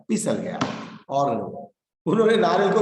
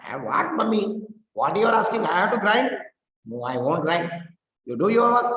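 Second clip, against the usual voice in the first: indignant whine; 5 semitones higher, slower than usual. Acted. Child indignant refusal voiced.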